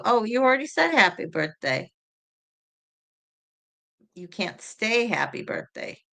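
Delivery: usual speaking voice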